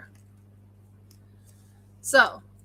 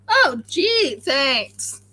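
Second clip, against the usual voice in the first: fake gratitude; 4 dB louder, much slower than usual. Retelling own sarcastic reply.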